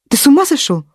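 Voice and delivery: high shocked question; aghast, voice jumps up. Acted. Wife shocked by husband.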